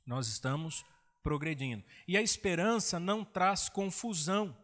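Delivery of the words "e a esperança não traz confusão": emphatic preaching. Real, not acted. Preacher stresses hope line.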